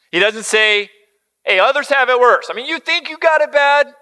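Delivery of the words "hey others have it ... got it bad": mock dismissive. Preacher mocks dismissive reply.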